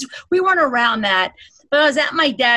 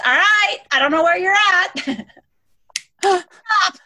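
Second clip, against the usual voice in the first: half-joking scolding of dad; mock exasperation at dad; 8 semitones higher, slower than usual. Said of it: "and I'm like this".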